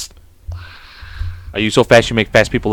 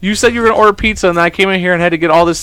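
higher, fast playful complaint; exasperated rant; 6 semitones higher than usual. Real, not acted. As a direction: rant in mock outrage. Complaining at wife.

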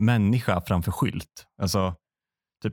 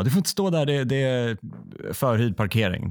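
mock yell; 3 semitones higher than usual. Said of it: "börjar någon skrika på henne".

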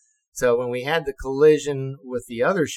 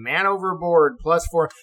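ship loudspeaker call; 4 semitones higher, 4 dB louder than usual. Retold or imitated. Imitating the ship's alarm call.

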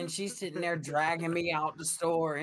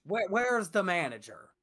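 mom demanding; 5 semitones higher, 3 dB louder than usual. Retold or imitated. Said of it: "she was like".

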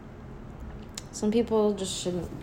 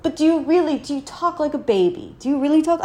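incredulous; 8 semitones higher, 5 dB louder than usual. Real, not acted. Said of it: "incredulous at baby talk".

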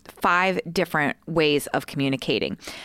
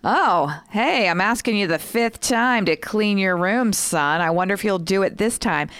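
mock-casual parental sarcasm, pitched up; sarcastic; 3 semitones higher than usual. Shown as a demonstration. Parent nagging son about his room, sarcastic. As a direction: feign a breezy reminder with a sarcastic edge. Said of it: "habit of using sarcasm to communicate something".

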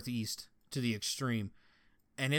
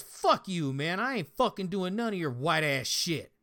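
angry inmate yell; 2 semitones higher, 4 dB louder than usual. Retold or imitated. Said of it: "he goes".

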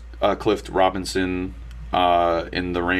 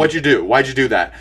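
angry Uncle Ben; 3 semitones higher, 4 dB louder than usual. Retold or imitated. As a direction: play the uncle snapping at his nephew, half in jest. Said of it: "he gets a little angry at, at Peter".

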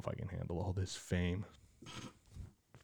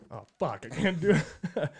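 mock panic; 9 semitones higher, 8 dB louder than usual. Imitating panic at gray hairs.

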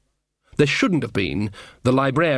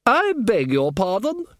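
higher, slow offended duchess voice; haughty duchess; 8 semitones higher, slower than usual. Acted. Duchess prodded by Nanny Ogg, high and haughty. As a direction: play the affronted noblewoman, drawn out.

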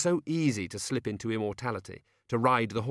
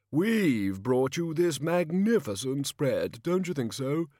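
high, loud, drawn-out kingly bluster; jovial overbearing king; 6 semitones higher, 4 dB louder, slower than usual. A narrator's reading. King scolding peasant over his beans, heartily overbearing. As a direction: boom it out like a hearty monarch.

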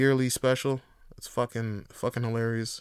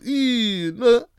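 hyped reply; 9 semitones higher, 5 dB louder than usual. Retold or imitated. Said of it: "You like".

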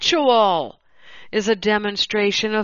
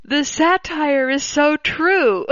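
slow, higher voice about to crack up; tickled, near laughter; 5 semitones higher than usual. Real, not acted. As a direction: say it slowly, barely holding back laughter. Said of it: "get through this without laughing".

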